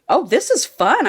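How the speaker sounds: high, delighted lilt; excited. Retold or imitated. Reader reaching chapter two of the book, excited. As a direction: perk up with eager interest. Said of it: "I got really excited".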